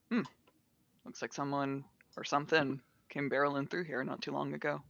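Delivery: quick, musing deduction; thoughtful. Acted. Hylas pacing forward, studying the room, thoughtful. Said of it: "a thoughtful expression on his face".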